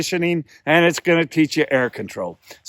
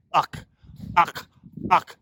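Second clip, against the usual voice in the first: goose call uck; 3 semitones higher, slower than usual. Shown as a demonstration. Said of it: "my tongue's not saying it".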